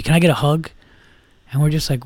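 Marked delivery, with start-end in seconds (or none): 0.0-0.7 mildly creepy imitation; real creepy. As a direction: ask like a creep, lightly hammed. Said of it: "like, real creepy".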